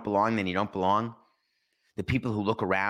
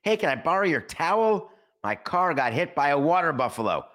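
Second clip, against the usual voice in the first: Fletch quote; 7 semitones higher, 4 dB louder than usual. Retold or imitated.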